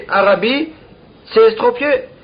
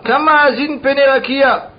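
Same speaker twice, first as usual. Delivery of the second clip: retold outcry; 4 semitones higher than usual. Teacher quotes the sage rebuking the sky, restrained exclamation. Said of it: "Alors il s'écria".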